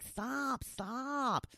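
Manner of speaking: high, drawn-out mock plea to stop; cringing plea. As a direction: beg in a high voice, half-joking. Acts out cringing at whispering commercials.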